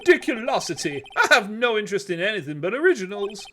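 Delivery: pompous rich Southern businessman; southern oil tycoon voice. Acted. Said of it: "southern U S, um, oil tycoon voice".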